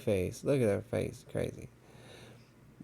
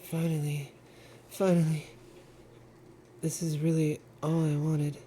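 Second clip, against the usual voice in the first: a lightly voiced obsessive girl, a bit higher and building in intensity; voicing Yuri; 5 semitones higher than usual. Player reading Yuri's love confession to Zajic, lightly voiced and obsessive. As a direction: read it like a lovesick, unhinged confession.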